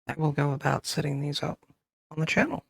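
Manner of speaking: talking while crunching chips. Real, not acted. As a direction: speak through a mouthful of chips. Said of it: "Sorry for the crunch in the ear".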